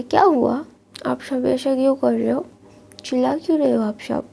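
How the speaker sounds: a hint of a naive boy; innocent young voice. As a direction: ask like a confused kid at the table. Innocent Wing asks family.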